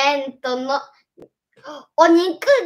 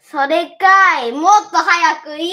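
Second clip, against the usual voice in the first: teasing retort; 6 dB louder than usual. Real, not acted. Kid's teasing retort to mom.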